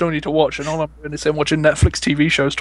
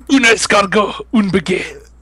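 put-on French accent; slower than usual. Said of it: "say it with the accent as well".

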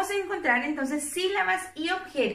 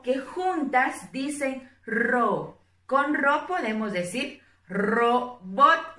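slow syllable demo; slower than usual. Shown as a demonstration. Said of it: "la R con la O".

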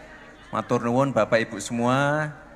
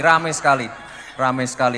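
ramai punched higher and louder; emphatic praise; 3 semitones higher, 5 dB louder than usual. Real, not acted. Mayor praising the crowded welcome, emphatic raised voice. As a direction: stress ramai sekali hard, then let it settle.

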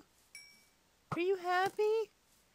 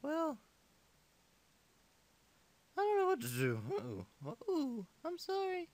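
sore throat; 5 semitones lower than usual. Real, not acted. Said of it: "I have a sore throat and my voice is going really low".

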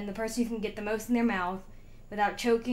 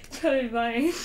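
cheeks stuffed full. Real, not acted. Round two, mouth full.

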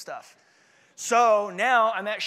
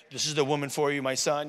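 lightly voiced God, lower pitch; God's voice; 5 semitones lower than usual. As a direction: lower it a little, like God addressing a son. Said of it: "You show up to me in my bed, like, say".

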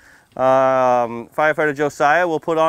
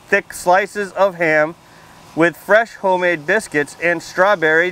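reading out louder, a touch higher; 3 semitones higher, slower than usual. Shown as a demonstration. Firefighter reading louder so the kids can hear, raised voice. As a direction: push the voice up to fill the room. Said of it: "now I gotta be really loud".

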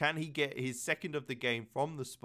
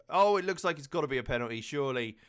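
excited; 2 semitones higher, 7 dB louder, faster than usual. Real, not acted. Foul in the box.

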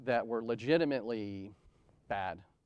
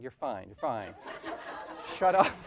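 chuckling through a brushed-off "you're fine", louder "shut up"; laughing dismissal; 4 dB louder than usual. Retold or imitated. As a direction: tease her while laughing. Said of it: "I'm like".

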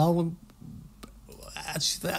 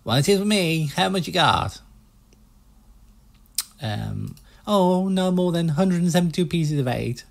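put-on US salesman accent; 3 semitones higher than usual. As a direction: pitch the boats like a pushy American car salesman. Player keeps voicing Stan.

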